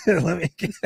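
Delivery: playful hint of Serbian; Jokic's Serbian accent. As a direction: laughingly put on a light Serbian accent. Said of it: "that's my Serbian".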